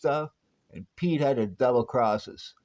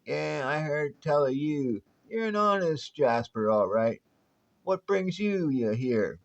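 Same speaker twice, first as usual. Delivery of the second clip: a hint of a crusty old Western prospector accent; lightly drawled old-timer Western accent; 3 semitones higher than usual. Old prospector accent scaring off visitors to his town. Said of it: "Your accent".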